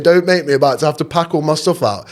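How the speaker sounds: hammed-up pleading with the cleaner. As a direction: beg like your safe place is at stake. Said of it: "pleading with him".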